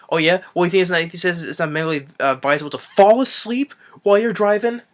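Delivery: lightly acted, rising disbelief; mock sarcastic comeback. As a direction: pitch climbing into an incredulous question. Retold sarcastic comeback to excuse.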